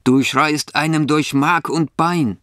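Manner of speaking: donkey character. A narrator's reading. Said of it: "spricht der Esel".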